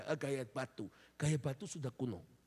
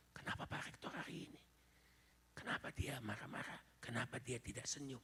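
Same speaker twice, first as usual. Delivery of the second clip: students whispering; 7 dB quieter than usual. Retold or imitated. Confused students whisper among themselves.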